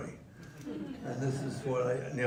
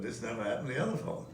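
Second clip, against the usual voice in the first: line as delivered; much faster than usual. Shown as a demonstration. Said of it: "So I just said".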